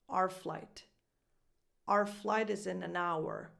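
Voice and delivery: "Our" as "ar", "hour" in full; reduced our. Shown as a demonstration. Coach repeating the flight example, reduced our. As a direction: say "Our" like the letter R. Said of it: "becomes just an R sound".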